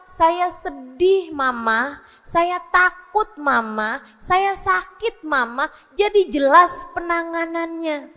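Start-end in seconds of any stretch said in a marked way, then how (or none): 0.1-5.7 put-on child telling mother. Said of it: "dia bisa ngasih tahu".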